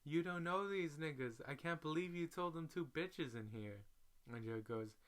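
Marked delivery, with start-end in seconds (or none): 0.0-3.9 mock angry pimp. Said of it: "pimp is going off".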